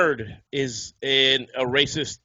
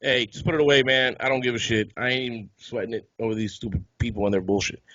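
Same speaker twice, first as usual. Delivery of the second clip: laid-back cop; 5 semitones lower than usual. Retold or imitated. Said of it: "the cop was like".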